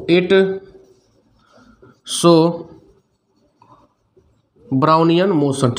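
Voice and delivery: very slow, long gaps between words; drawn-out note-taking pace; slow dictation. Real, not acted. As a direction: dictate word by word for note-takers. Dictating notes for students to write.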